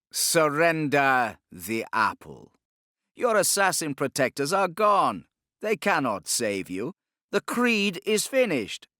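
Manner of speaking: cold triumphant command; commanding Inquisitor. Acted. Torquemada demanding the apple from the Sultan, commanding.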